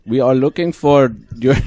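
hammed-up accent impression; Elon Musk. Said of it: "he almost sounds".

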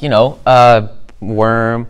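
ordinary talk

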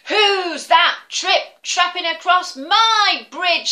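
loud, slow booming troll. Acted. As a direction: roar it like a troll. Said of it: "said the troll".

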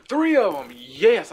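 gasp, then high, loud celebration; real whoop of delight; elated cheer. Real, not acted. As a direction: cheer a lucky find at full voice. Celebrates a rare drop.

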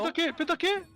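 high, loud hype scream; esports caster. Real, not acted. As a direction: scream it like a pentakill.

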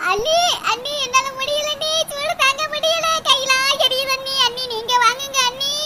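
hammed-up soft crying complaint; whimpering plea. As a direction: whimper to the sister-in-law in mock pain. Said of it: "அழுகாதம்மா".

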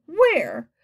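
high, loud cry with falling end; excited insistent shout; eager outcry. A narrator's reading. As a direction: demand it urgently. They eagerly demand the food.

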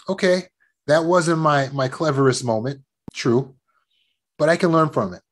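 easy, forgiving talk to yourself; mild, reassuring acceptance; calm self-talk. Shown as a demonstration. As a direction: own a mistake kindly and move on. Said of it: "talk calm to yourself".

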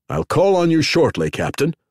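cheerful parting promise; captain calling brightly after Daniel. A narrator's reading. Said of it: "Simona said brightly".

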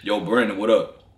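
put-on low voice; deep voice. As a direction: drop the voice down low. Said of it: "I'm finna deep voice activated".

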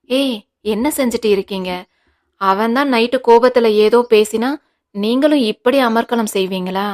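a mild scolding rebuke; lightly voiced stern husband reprimanding. Guna scolding his wife over the fuss, mild rebuke. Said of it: "ரேகாவை அதட்டினான்".

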